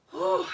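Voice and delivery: high, puffed-out exhale; winded whew. Real, not acted. Crafter recovering from the stairs, winded whew. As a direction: blow out a breath after exertion. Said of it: "I'm, like, really out of breath".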